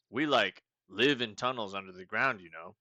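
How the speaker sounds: loud laid-back hippie with a trailing you know; hippie talk. Acted. Meep describing tunnels, loud laid-back hippie voice. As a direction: chill surfer-hippie rambling. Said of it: "Is that why he talks like that?".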